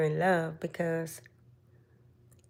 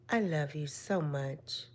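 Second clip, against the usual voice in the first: tender; 3 semitones lower, 6 dB quieter, slower than usual. Shown as a demonstration. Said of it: "Tell 'em".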